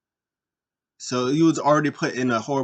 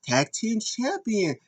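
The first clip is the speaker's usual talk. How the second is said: slow, higher mock Japanese accent in broken English; a light Japanese-accented boast; imitating Asuka's Japanese accent; 7 semitones higher, slower than usual. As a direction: drag it out in a put-on Japanese accent. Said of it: "She's like".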